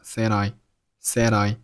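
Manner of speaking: d of "said" carried onto "I"; linked "said I". Shown as a demonstration. Teacher showing how "said I" links together. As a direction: join "said" and "I" without a break. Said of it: "said和I又连读成了said I".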